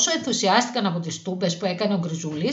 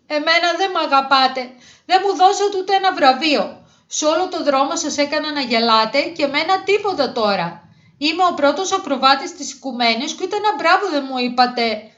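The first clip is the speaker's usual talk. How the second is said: crying complaint; 7 semitones higher than usual. A narrator's reading. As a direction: act a tearful little squirrel protesting being left out. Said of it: "έλεγε και έκλαιγε συνέχεια". (κλαψιάρικο παράπονο)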